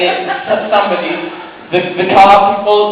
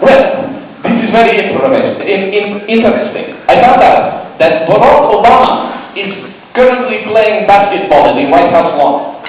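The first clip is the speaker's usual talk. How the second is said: put-on halting, thick Russian accent. Spy Sergei reporting his findings, Russian accent. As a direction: play a Russian spy searching for English words. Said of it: "thick Russian accents".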